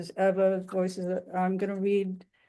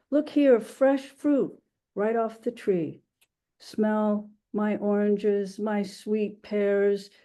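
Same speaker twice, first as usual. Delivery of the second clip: measured, deliberate poetry recital in a market seller's role; poem reading; slower than usual. Acted. Translator reading the Market Song to an audience, measured poem recital. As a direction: recite it as a vendor's calls, phrase by phrase.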